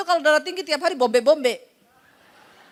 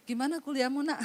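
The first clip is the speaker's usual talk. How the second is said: gentle soft father voice; softly asking son; 6 dB quieter than usual. Retold or imitated. A softened father asks his son about college, quietly. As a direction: ask it softly, almost sweetly. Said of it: "Ini dia gini".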